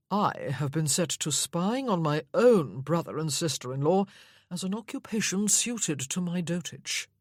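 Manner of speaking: a touch of lofty boredom; haughty, bored. Acted. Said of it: "in his haughtiest, most bored voice".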